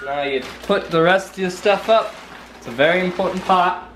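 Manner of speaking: put-on light Brooklyn accent, quick; a hint of Brooklyn accent. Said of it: "I'm talking like I'm from Brooklyn".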